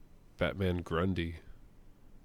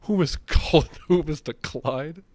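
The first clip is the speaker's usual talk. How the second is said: higher and louder, half-laughing taunt; gleeful mock shout; 8 semitones higher, 7 dB louder than usual. Fan quoting the brute's taunt to his friend, loud mocking voice. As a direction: bark it out like a cocky brute, laughing. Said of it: "but then he's like".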